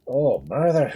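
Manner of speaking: alarmed Irish cry; frightened cry. A narrator's reading. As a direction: cry out in panic. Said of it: "he cried".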